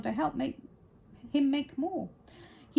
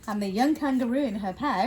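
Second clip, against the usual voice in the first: quicker, ordinary storytelling voice; narrator's voice; faster than usual. Shown as a demonstration. Reader correcting to narrator's voice, brisk storytelling. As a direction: drop the character and narrate briskly. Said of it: "That's better, narrator's voice".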